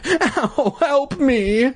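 very high, tiny cry; squeaky little voice. Acted. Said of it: "in a squeaky little voice".

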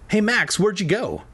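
put-on high kid brother calling out; mildly frightened. A narrator's reading. Little brother calls for invisible Max, mildly frightened high voice. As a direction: call out high, with a touch of worry. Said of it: "sounding frightened again".

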